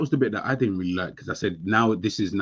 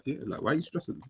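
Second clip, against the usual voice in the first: soft, calm mock child's question; a hushed, unbothered imitation; imitating a calm kid, softly; 3 semitones higher, 12 dB quieter than usual. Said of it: "such a calm voice".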